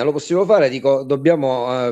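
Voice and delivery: normal talking voice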